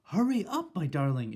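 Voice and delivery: high, loud call from outside; shouted. Acted. Grandmother calling from the balcony, high and loud. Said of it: "it shouted".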